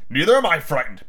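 adult comeback near ordinary pitch; match the child's denial; defensive father. Acted. Father answers son's boast, defensive.

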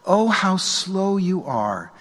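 slow, gentle Oh, not sarcastic; with compassion. Shown as a demonstration. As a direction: sigh it out with compassion for the two. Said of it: "he says it with some compassion".

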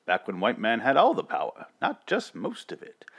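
lightly voiced vintage announcer; old-fashioned newsreel host delivery; old timey voice. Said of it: "old timey voice".

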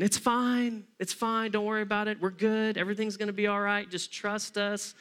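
calm reassurance. Retold or imitated. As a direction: settle him like a nervous friend. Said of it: "you get that calm presence".

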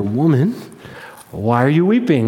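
low-pitched, tender asking; gentle question. Acted. Jesus asks weeping Mary outside the tomb, gently.

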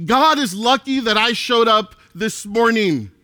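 a cocky, self-important voice, lightly put on; mock arrogant churchgoer. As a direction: poke fun at a proud churchgoer bragging. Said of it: "this opinion of ourself".

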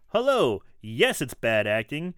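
reading a review aloud. Acted. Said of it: "From Brian".

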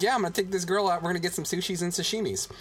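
lightly imitated country bumpkin; Squirrely Dan. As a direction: imitate a country guy adding S to words. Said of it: "Squirrely Dan puts an S".

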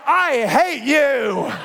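teary laugh. Retold or imitated. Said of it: "she's crying".

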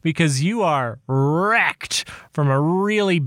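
ranting at younger self, mock-heated. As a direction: scold a smug kid, half joking. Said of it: "sit him down and be like".

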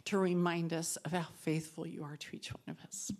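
hushed whispered plea; whispered prayer. Real, not acted. Praying for the group's faith, in a whisper. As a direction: breathe the words to God.

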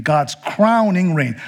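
God's crowning reign, leaning on "crowning"; slow, weight on "crowning"; stress on crowning. Shown as a demonstration. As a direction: repeat it, pressing "crowning". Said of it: "alliteration, right?".

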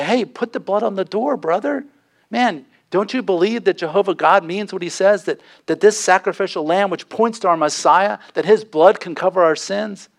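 pleading. Acted. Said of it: "beg and plead with your neighbor".

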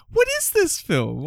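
high, slow, disbelieving question; stunned at what they're seeing; incredulous. Retold or imitated. Stunned watching dark film.

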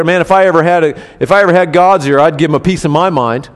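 loud, defiant grumble; indignant boast. Retold or imitated. Job boasting what he'd tell God, loud defiance. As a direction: bluster like a man spoiling for a fight. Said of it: "you said".

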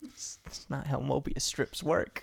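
heated arguing. Real, not acted. Heated argument.

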